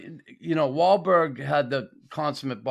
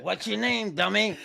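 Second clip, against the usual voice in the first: higher-pitched playful jab, nearly laughing; mock insult; 6 semitones higher than usual. Pitching a T-shirt slogan to friends, mock insult. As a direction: toss it out as a teasing catchphrase. Repeats the catchphrase amid laughter.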